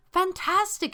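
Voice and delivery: high, loud burst of enthusiasm; enthusiastic. A narrator's reading. Soldier thanks volunteer for first watch, enthusiastic. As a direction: jump on the word with delight. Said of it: "she says enthusiastically".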